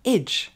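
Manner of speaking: ending AGE with a short "eh" plus "dj"; reduced English ending. Shown as a demonstration. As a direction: say the suffix AGE like "edge". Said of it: "vous allez simplement le prononcer".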